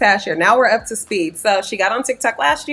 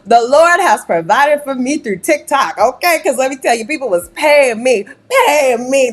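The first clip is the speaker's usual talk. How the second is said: mock testimony. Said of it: "this is my testimony too".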